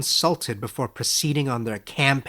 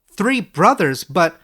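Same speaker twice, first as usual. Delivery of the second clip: put-on higher, earnest young scholar, slow and amazed; Edric's voice; 7 semitones higher, 9 dB louder, slower than usual. Young scholar asks his old teacher, amazed and higher. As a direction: ask it wide-eyed, a step higher.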